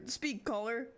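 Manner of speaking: radio host voice. Pretend. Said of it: "We're receiving a caller".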